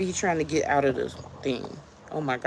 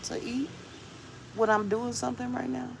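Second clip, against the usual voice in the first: raised, pointed question to her husband; wife challenging her hungry husband, voice pitched up; 7 semitones higher than usual. Retold or imitated. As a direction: ask it high and teasing, making a point. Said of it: "and I asked him".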